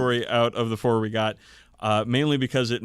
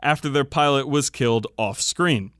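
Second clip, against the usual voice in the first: louder, grand fan fiction narration; dramatic story reading; 2 semitones higher, 3 dB louder than usual. Acted. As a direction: read it like an epic war tale. Reads fan fiction aloud.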